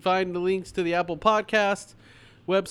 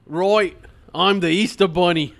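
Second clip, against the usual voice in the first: put-on Australian accent; 5 dB louder than usual. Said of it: "Easter Bunny has an Australian accent".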